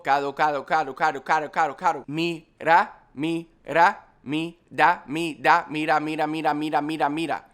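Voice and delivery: para, cado and mira drilled with a D in place of the R. Shown as a demonstration. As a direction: drill each word swapping the R for a D. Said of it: "implement the D for each R".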